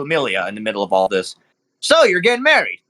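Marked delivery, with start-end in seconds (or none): 1.8-2.8 lightly raised, friendly host; chummy and a bit presumptuous; jovial club owner. Acted. Club owner congratulating the dwarf, lightly raised. GM voices Nero Pink.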